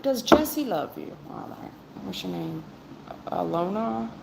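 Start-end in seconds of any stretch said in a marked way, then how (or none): 0.0-1.2 higher and slower, asking clearly; slow, higher demo of a yes-no question; mock proper question. Shown as a demonstration. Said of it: "It's not".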